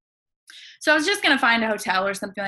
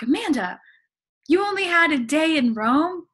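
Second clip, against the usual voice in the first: imitating Francesco; 8 semitones higher, 4 dB louder than usual. Francesco pleading with her.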